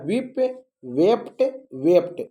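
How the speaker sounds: वीप, वेप्ट, वेप्ट said slowly, one by one; pronunciation model. Shown as a demonstration. Teacher asks pupils to mind pronunciation, careful model. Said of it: "उच्चारण पर बहुत ध्यान दीजिएगा".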